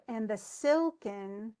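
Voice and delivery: slow, "silken" stressed on silk; stressed reading. Shown as a demonstration. Teacher scanning the line aloud for her student. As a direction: tap out the beat on silken. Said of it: "but then we have".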